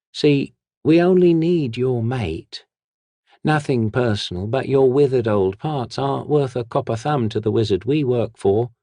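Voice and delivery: sly hissed threat from the shadows. Acted. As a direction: hiss the warning like a street thief. The whisperer continues.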